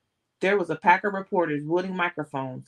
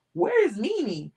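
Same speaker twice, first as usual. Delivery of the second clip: much higher, full-lunged scream; 8 semitones higher, 3 dB louder than usual. A narrator's reading. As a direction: scream it at the top of your lungs. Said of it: "screamed at the top of his lungs".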